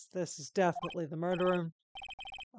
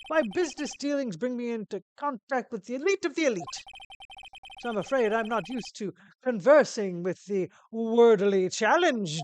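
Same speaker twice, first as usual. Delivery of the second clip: grand, louder, haughty delivery; pompous CEO, condescending; 5 semitones higher, 8 dB louder than usual. Acted. CEO belittling his visitor, haughty and pompous. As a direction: talk down from a great height.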